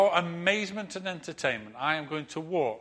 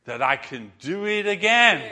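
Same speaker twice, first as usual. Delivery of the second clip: slow, louder ringmaster call to the crowd; showman challenge; 5 semitones higher, 7 dB louder, slower than usual. Retold or imitated. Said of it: "he says to them".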